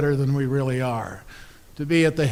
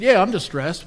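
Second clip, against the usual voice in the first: high and louder, aggrieved; grumpy old pastor; 6 semitones higher, 6 dB louder than usual. Acted. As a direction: complain like a hurt old man. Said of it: "He said".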